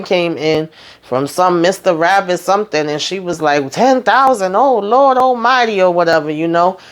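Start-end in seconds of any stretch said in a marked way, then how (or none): 3.7-5.8 mock excited praise. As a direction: gasp it out like a thrilled preacher. Pastor sees big donation.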